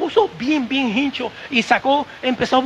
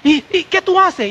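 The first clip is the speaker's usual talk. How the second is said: alarmed doctor shouting; 9 semitones higher than usual. Retold or imitated. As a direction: shout it in a high panic as the frightened doctor. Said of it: "empezó a gritar".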